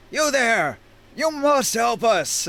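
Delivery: high, commanding call; crying out. Acted. Scion compelling a fleeing half-giant to help, commanding cry. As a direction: call out a forceful order, slowing on the demand. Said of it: "he cries out".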